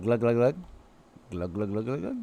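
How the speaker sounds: imitated gulping glugs, low then lifting at the end; glug sound effect. Shown as a demonstration. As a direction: make up a hydration sound: glug-glug. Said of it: "What would it be? Like a little, like".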